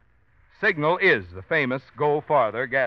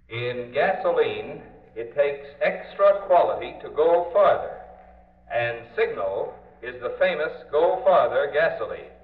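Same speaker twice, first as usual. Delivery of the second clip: public address system. Shown as a demonstration. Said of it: "through the public address system, it sounds like this".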